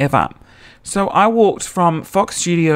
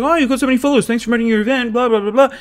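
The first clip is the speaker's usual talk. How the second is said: high-pitched gushing imitation; gushing mock fan; 8 semitones higher, much faster than usual. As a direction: mimic gushy thanks in a high voice. Repeats the put-on Andrew voice.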